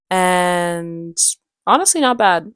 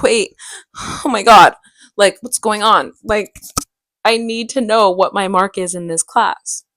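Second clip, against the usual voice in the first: loud, mildly frantic plea; retold panic; 7 dB louder than usual. Student reaching out to her teacher, mildly panicked. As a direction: blurt it out as if panicking over a mark.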